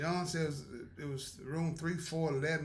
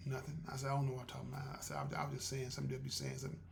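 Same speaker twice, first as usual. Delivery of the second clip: quiet; 3 semitones lower, 6 dB quieter, faster than usual. Retold or imitated. Backing down after teasing.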